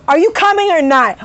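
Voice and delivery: doctor snapping at the couple, curt and impatient; snippy attitude. Retold or imitated. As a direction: toss it off with attitude. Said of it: "With a fucking attitude".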